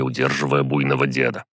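usual speaking voice

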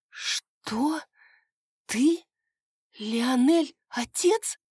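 high, stunned questions; shocked disbelief. Acted. Maria reels as her brother turns out to be father, high shocked questions. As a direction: reel from the news, voice shooting up. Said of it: "переспросила Мария".

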